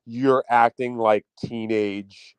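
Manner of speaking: slow, deliberate scolding; drawn-out mock scold. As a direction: lay it out slowly like a lecture. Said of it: "I was gonna be like".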